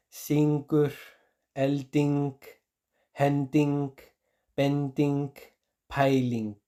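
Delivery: "syngur, elting, henting, benting, peiling" con i cerrada, palabra por palabra; pronunciación recomendada. Shown as a demonstration. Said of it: "le dicen así". ("syngur, elting, henting, benting, peiling" con i cerrada y pausas)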